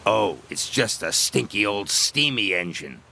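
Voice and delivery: mocking engine voice. Diesel mocks Thomas.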